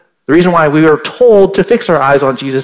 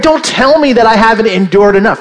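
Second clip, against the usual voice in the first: imitating an offended listener, a touch louder and higher; mock indignant listener; 6 semitones higher, 4 dB louder than usual. Preacher voicing a listener who takes offence, mock indignant. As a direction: play the hurt churchgoer pushing back. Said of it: "and you're thinking".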